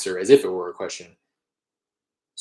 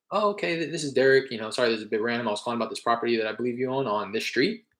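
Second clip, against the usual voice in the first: demo sales pitch; faster than usual. Shown as a demonstration. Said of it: "So I say".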